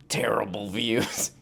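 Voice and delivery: hushed, slow, breathy aside; mock whisper. Mocking NPR's views in a hushed, slow whisper. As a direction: whisper it like a guilty secret.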